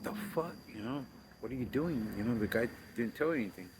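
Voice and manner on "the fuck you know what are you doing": startled "the fuck". Retold or imitated. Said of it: "And he's like".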